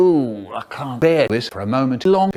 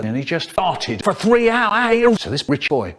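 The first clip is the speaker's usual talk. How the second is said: normal talking voice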